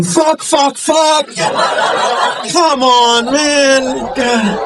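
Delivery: high-pitched desperate cursing; urgent strained cursing. Acted. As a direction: curse in a high, hammed-up panic. Panicking about making it home.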